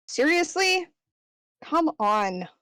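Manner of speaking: high, incredulous seriously; exasperated. Acted. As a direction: roll your eyes at him. Angel exasperated.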